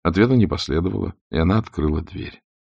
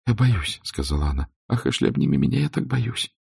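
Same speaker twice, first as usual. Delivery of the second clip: frightened plea; 6 semitones higher, 4 dB quieter than usual. A narrator's reading. Scarlett begs Ashley to hold her.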